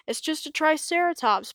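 high, smug declaration; Bonehead declaring. A narrator's reading. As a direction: show them it was nothing. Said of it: "Bonehead declared".

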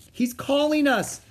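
high-pitched excited cry; shouting. A narrator's reading. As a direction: call it out urgently. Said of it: "shouted Annie".

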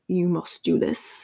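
preachy. Retold or imitated. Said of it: "I don't wanna seem so preachy".

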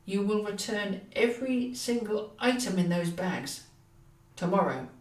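shaking with anger through clenched teeth; gritted teeth. Acted. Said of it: "Through gritted teeth he spoke".

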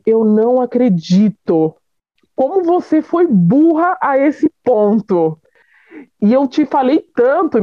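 slow, emphatic retold reproach; scolding mother. Mother hearing of daughter's pregnancy, scolding in disbelief.

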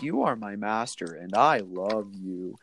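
slow, lightly voiced devoted dog; a hint of the Up talking dog, slow; cliche dog voice. The dog Doug from Up, in a slow adoring dog voice. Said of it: "that's the cliche voice for every dog".

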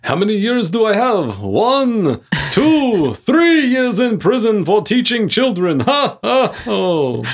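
high, bright puppet villain voice; squeaky Count-like puppet laughing. Pretend. Voicing the fleeing purple puppet.

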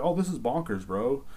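lightly put-on British accent; bad British accent. Mimicking Prince Harry talking to rednecks, poor British accent. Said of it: "that's my best British accent".

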